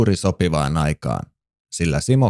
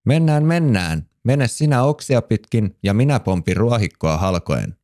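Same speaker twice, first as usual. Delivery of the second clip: excited call; 3 semitones higher than usual. Acted. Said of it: "huudahti Luukas".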